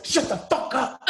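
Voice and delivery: mock bench shout. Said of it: "the whole bench goes".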